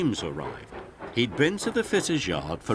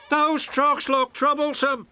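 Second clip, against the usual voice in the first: mild laugh; 5 dB louder than usual. A narrator's reading. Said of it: "laughed James".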